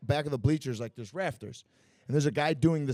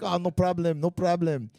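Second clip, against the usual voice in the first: higher-pitched imitation of a Thai friend; breezy reassurance, imitated; 5 semitones higher, 4 dB louder than usual. Thai friend brushes off worry about drunk fighter, imitated higher. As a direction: wave it off in a friend's raised voice.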